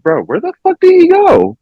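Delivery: sudden disbelief, voice jumping up; looking around confused for his missing friend; baffled. Retold or imitated. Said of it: "I was like".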